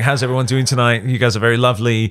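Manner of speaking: stage greeting in an English accent. Shown as a demonstration. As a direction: welcome the crowd in a put-on English accent. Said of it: "shows just in an English accent".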